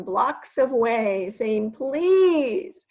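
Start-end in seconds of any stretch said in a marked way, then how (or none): 1.7-2.9 put-on howling children. Children blocks away wailing a slow, loud plea. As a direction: wail it like fed-up kids. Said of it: "could hear all the howls".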